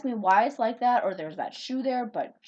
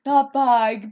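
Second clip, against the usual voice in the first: "bag" with a Minnesota raised vowel, like "bayg"; 11 dB louder than usual. Shown as a demonstration. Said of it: "my Minnesota accent".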